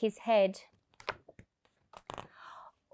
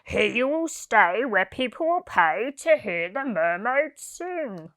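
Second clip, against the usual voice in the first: refusing circus owner; 3 dB louder than usual. A narrator's reading. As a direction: turn her down flatly, a mocking boss. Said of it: "laughed ... and told her".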